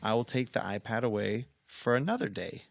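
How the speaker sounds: quietly firm, retold warning; unyielding calm parent. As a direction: lay down consequences without raising your voice. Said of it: "I don't wanna scream at them".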